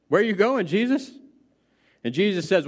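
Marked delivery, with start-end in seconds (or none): 0.1-1.1 startled question. Acted. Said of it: "he speaks up and says".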